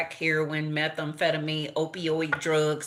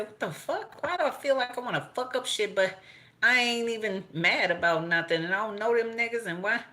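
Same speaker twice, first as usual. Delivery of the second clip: retold frantic rant; 5 semitones higher than usual. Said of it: "I said".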